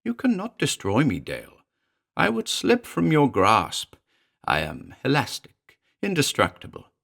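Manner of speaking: high, shrill mocking imp; lightly voiced shrill familiar; shrill demon. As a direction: needle him like a gleeful little devil. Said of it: "The little shape shrilled".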